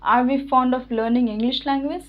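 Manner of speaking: very slow, every word laid out clearly; slow model sentence. Shown as a demonstration. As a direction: dictate it slowly for students to copy. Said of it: "सही उच्चारण यही होता है". (बहुत धीमे, हर शब्द साफ़-साफ़ बोलकर)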